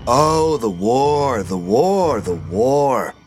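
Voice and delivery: loud, high, sarcastic sing-song of the war; mock the old man's war stories. Petey mocks grandpa's war stories.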